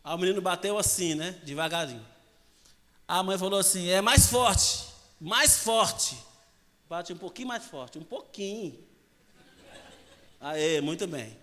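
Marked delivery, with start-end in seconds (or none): 3.9-6.3 louder mother's demand; mother insisting louder, harder; mother urging. Retold or imitated. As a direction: push the words out at volume.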